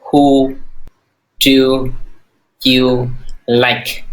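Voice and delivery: slow, each word apart; broken into separate words for drilling. Shown as a demonstration. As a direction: say it one word at a time. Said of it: "Lo nói chị".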